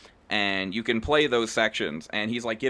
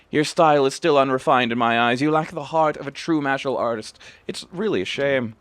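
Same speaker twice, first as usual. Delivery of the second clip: lightly voiced stern old master, a bit louder; old master Kamaki; 2 semitones higher, 4 dB louder than usual. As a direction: read the master's judgement with weight. Reads Kamaki's lines.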